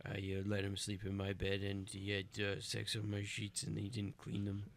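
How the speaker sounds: hushed, embarrassed admission; quiet confession. Acted. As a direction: mutter the secret softly. Confessing secret, low voice.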